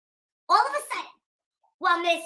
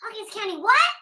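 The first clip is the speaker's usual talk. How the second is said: mock outrage; 7 semitones higher than usual. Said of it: "So I said".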